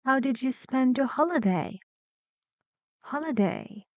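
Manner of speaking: "holiday" falls from HOL to the end; teacher modelling a falling tune on "holiday"; falling intonation. Shown as a demonstration. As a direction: let the tune drop through "holiday". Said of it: "falling intonation here".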